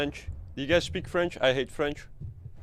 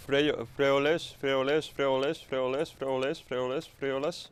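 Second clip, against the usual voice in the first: tongue twister. Shown as a demonstration. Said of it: "tongue twister".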